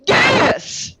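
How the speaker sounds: Gaius called out high and drawn out; called-out spell word. Shown as a demonstration. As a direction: sing out Gaius like casting a spell. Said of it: "do I have to be like".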